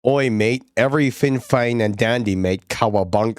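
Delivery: hammed-up Aussie bloke greeting; mock Australian. Streamer goofing on Aussies for chat, hammed-up Aussie accent. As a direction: lay on a cartoon Aussie accent. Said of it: "Okay, I'm sorry".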